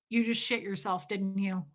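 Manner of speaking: quiet, deadpan mock accusation; straight-faced. Comedian quoting partner catching the accident, straight-faced. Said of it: "It was straight face".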